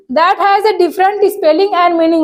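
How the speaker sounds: slow dictation reading. Shown as a demonstration. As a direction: read the definition very slowly, word by word. Reads definition slowly. (धीमे-धीमे परिभाषा पढ़कर सुनाना)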